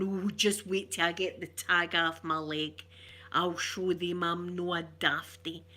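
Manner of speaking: slowed-down mock weepy threat; mock crying. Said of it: "she's crying, and she's going".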